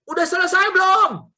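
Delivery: high-pitched call to someone upstairs; retold impatient shout. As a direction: imitate an impatient husband calling out. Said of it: "Saya mulai teriak".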